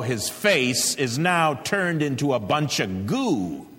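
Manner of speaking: a hint of a gruff general; lightly voiced tough general rallying troops; Patton's raspy voice. General rallying his worried boys, hint of gruff bark. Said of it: "he says in his raspy voice".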